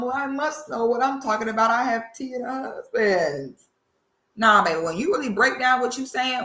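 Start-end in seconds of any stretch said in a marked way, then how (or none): 0.0-3.7 condescending tone. Retold or imitated. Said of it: "in a real condescending tone".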